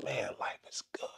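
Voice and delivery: soft unvoiced whisper; whispered thought. Somebody somewhere thinking to themselves, whispered. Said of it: "thinking to themselves".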